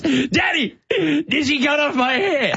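put-on high, slow, giggly kid asking her dad; a small daughter puzzled about her haircut; little girl voice. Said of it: "And she goes".

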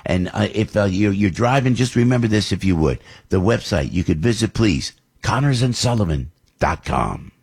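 upbeat radio ad read with phone number; live ad read. Acted. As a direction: sell it like a host-read spot. Host reads a live ad.

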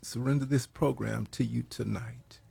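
hushed, earnest opening prayer. Acted. Radio host praying over his program.

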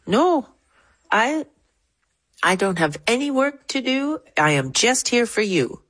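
high-pitched, halting refusal; imitating a regal woman. Elephant expert correcting the visitors' plan, high and deliberate. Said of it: "turns her head and says".

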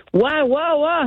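high-pitched, imitated groggy "whoa"; startled sleepy husband. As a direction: mimic a sick husband jolted awake by yelling. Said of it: "He was so sleepy, so sick".

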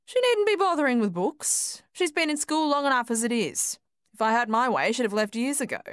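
put-on high, sneering old woman; sneering mother. A narrator's reading. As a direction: sneer it down at the teacher. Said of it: "she sneered".

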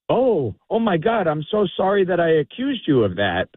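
high-pitched mock apology; gushing apology. Drunk apologises for his accusation, mock gushing. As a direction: imitate a drunk falling over himself to apologise.

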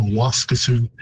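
Waskesiu with the second syllable reduced, wask-uh-sioux; Waskesiu, stress first and middle syllable swallowed; English reduced form. Shown as a demonstration. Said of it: "reduce the second syllable".

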